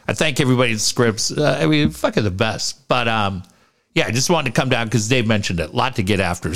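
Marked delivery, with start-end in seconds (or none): 3.9-6.6 plugged-up nose after surgery; blocked nose. Real, not acted. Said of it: "So a little plugged up".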